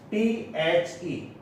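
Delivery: T H E spelled letter by letter; spelled out slowly. Shown as a demonstration. Teacher spelling the word for students, slowly. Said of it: "इसका जो pronunciation है".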